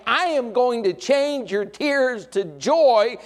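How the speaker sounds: slow, high, loud promise building to a peak; Jesus comforting. Acted. Jesus promising the grieving widow a miracle, slow and rising. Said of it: "he was saying".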